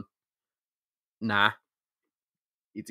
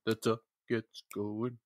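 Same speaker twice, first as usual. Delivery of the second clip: mock motivational; 4 semitones lower, 10 dB quieter than usual. Mock motivational saying, trailing low.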